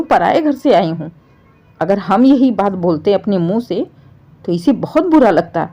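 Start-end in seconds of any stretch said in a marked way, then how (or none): 0.0-1.1 mimicking the daughter-in-law in a mocking put-on voice; mocking imitation. A narrator's reading. Mother-in-law mimics the wife's repeated line to her son, mocking. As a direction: parrot her words to ridicule. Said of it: "यही रट लगाई रखी है".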